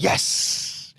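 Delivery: a tiny breathless whisper; whispered yes. Retold or imitated. Patty quietly agreeing to join the Jazz, in a mock whisper. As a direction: mouth the yes like a secret. Patty's reply voiced in story.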